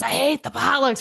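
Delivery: growled mock complaint; put-on grouchy older colleague; grumbling coworker. Coworker answering his leader about potlucks, grumbling. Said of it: "And he's".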